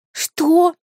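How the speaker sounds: shocked high gasp of a question; gasped what. A narrator's reading. Heroine gasps at the beast's refusal, shocked. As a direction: gasp it out in disbelief. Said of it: "ахнула я".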